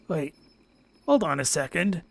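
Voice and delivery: ordinary talk, nothing marked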